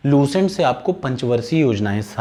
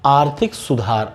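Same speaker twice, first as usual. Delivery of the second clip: slow emphasis; slower than usual. Shown as a demonstration. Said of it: "एक और चीज़ याद रखिए".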